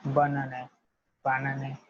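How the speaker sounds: banane said as "ba-nah-neh", each syllable clear; French banane drill. Shown as a demonstration. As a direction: repeat banane carefully, teacher modelling. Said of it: "you will pronounce it as banane".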